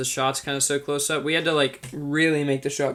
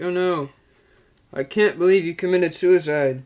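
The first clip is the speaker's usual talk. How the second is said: Neil Breen impression; 5 semitones higher, 7 dB louder than usual. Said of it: "he's like".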